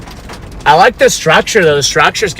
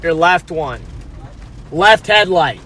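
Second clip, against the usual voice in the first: calling out; 5 semitones higher than usual. Real, not acted. Calling to dad about headlight.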